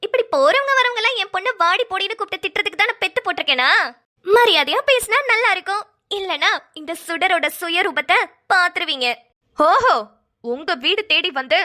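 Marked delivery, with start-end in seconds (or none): 0.1-9.1 indignant warning in a raised pitch; angry. Acted. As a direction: bristle in defence of your daughter. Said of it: "உங்களுக்கு இவ்ளோ கோவம் வருதே". (கோபமாக எச்சரித்தல்)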